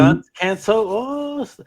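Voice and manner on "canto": "Canto" said the Spanish way; Spanish pronunciation. Real, not acted. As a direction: give "Canto" a Spanish open "ah". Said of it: "goes for the Spanish pronunciation".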